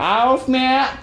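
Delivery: high, overblown surprise; over-exaggerated. Shown as a demonstration. To listeners, showing how she exaggerates, high hype. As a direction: blow it way out of proportion. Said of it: "I just over-exaggerate stuff".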